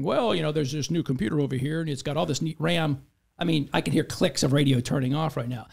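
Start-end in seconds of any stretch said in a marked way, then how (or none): 0.0-3.0 mock tech show host. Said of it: "did my high-tech Texan show going".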